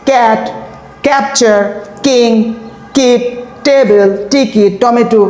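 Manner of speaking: ক্যাট ক্যাপচার কিং কিপ টেবল টিকিট টমেটো with flat ক and ট; no air on ক and ট; old wrong way. Shown as a demonstration. Teacher recalling students' old way. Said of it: "আর আগে কিভাবে উচ্চারণ করতে?".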